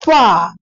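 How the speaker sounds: पा with its vowel drawn out; vowel sound demo. Shown as a demonstration. Teacher sounding out an example word. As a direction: sound out पा clearly. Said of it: "ये आवाज ऊपर की तरफ जा रही है".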